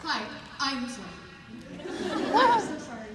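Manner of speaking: giggly, flustered apology; nervous laughing. Real, not acted. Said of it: "I'm a bit nervous".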